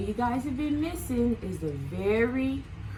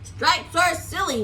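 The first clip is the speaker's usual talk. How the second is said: complaining Moose; 5 semitones higher than usual. Acted. Moose complaining to the others about stripes. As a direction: grumble like a fussy moose. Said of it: "Moose complained".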